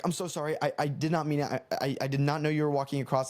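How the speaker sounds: mild mock panic; retold frantic apology. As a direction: imitate stumbling over an apology. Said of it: "literally like this in this tone".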